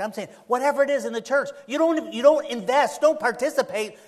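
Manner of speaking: fervent preacher emphasis; rising emphasis. Real, not acted. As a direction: drive the point home, building. Preacher builds to emphatic point.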